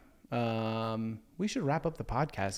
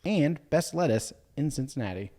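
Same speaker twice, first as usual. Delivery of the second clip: ad read; 3 semitones higher than usual. Acted. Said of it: "I'm reading an ad now".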